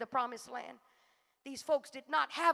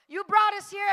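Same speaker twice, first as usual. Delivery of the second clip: mock shout; 3 semitones higher, 4 dB louder than usual. Israelites complaining to Moses.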